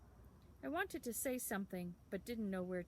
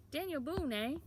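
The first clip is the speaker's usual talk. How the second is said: much higher, louder, teasing echo of the name; amused town boy; 7 semitones higher, 5 dB louder than usual. A narrator's reading. Town boy echoing the nickname, higher and amused. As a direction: savour the nickname with a smirk.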